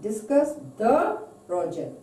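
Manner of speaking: "the" held out in "discuss the project"; stress on THE. Shown as a demonstration. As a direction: lean on the word "the". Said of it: "this sentence is the".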